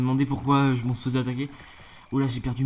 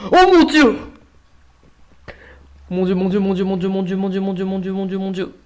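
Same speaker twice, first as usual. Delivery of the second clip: shrieked much higher and louder, repeated in a frantic stream; panicked yelling; 7 semitones higher, 11 dB louder than usual. Real, not acted. Player screaming at monsters on screen, panicked yell. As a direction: scream it as the monsters charge, then keep wailing. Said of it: "Désolé, j'ai gueulé là".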